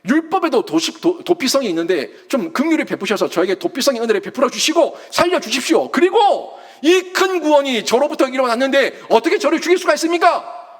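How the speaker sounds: a hint of a son begging the king for his life, rising high toward the end; plead, building from calm to a high, desperate appeal; mock desperate pleading. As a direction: pretend Jonathan pleading with King Saul, voice climbing in desperation. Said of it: "막 발악하지 않겠어요".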